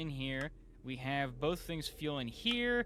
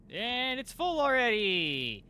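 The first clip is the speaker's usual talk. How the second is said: higher, louder, slowed amazement; surprised; 9 semitones higher, 8 dB louder, slower than usual. Real, not acted. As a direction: marvel that it filled so fast. Tank fills unexpectedly.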